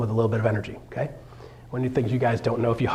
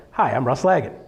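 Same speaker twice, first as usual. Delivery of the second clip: a little more energy on the intro; little bump. Shown as a demonstration. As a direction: lift the greeting slightly. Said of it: "little bump".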